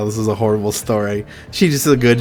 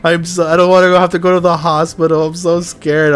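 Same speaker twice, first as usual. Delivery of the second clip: mimicking scared friend; 7 semitones higher, 5 dB louder than usual. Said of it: "she was really crying".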